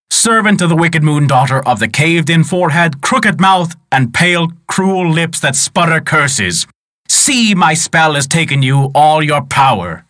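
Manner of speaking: a mighty wizard scolding his enemy; great wizard's voice. Acted. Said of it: "said the great wizard".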